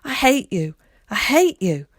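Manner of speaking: loud, high wailing cry. A narrator's reading. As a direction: scream it through tears.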